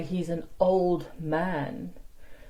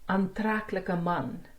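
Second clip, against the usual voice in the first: slow stressed ending; slower than usual. Shown as a demonstration. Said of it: "Can you see there?".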